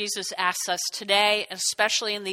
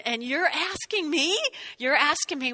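acted disbelief, voice lifting on the question; incredulous; 5 semitones higher than usual. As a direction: throw the question back, mildly incredulous. Acting out Mary's disbelief at question.

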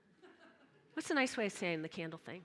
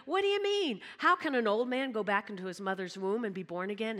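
baffled Nicodemus; 4 dB louder than usual. Acted. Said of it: "And Nicodemus".

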